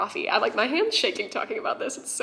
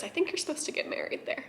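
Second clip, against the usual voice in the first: hushed gentle; 6 semitones higher, 9 dB quieter than usual. Retold or imitated. Friend's gentle line, retold.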